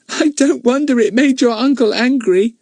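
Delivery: put-on high girl's voice; Betts. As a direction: kind little girl. Betts speaks.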